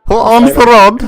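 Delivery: high, loud shouted question. Pretend. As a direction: bellow the question.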